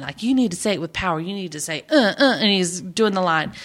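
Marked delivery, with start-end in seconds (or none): 0.2-2.4 retold delivery with power. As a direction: voice the coach pushing more power. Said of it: "So he's telling him how to deliver the line".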